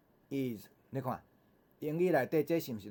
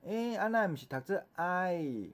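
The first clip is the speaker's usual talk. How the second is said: imitated learner's objection; 7 semitones higher than usual. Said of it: "有的人讲".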